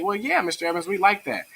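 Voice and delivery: high-pitched agreeing pupil; lightly acted high student voice. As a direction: play a kid agreeing with teacher. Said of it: "And they say".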